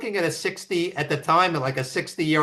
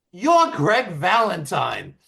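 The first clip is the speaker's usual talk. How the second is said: starstruck fan; 4 semitones higher, slower than usual. Retold or imitated. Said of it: "points at Greg, and goes".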